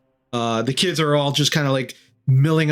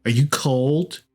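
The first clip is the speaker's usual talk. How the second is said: put-on little boy. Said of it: "the little boy starts walking towards you".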